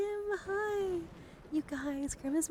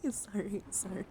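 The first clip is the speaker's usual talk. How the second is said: hushed, close whisper for a card showcase; ASMR whisper. Acted. ASMR creator whispering through her Magic cards, gentle whisper. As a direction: whisper as if lulling someone to sleep.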